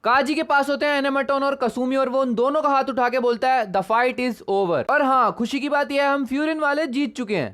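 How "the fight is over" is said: slow victory declaration. Acted. Raising both fighters' hands, declaring victory.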